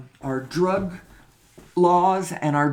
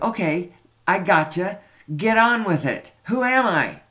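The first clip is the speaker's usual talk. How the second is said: impatient listener; 2 semitones higher, 5 dB louder than usual. Retold or imitated. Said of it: "somebody listening is like".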